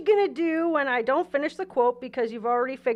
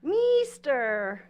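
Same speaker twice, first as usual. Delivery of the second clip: put-on Mexican accent on Meester. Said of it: "did I sound a little Mexican?".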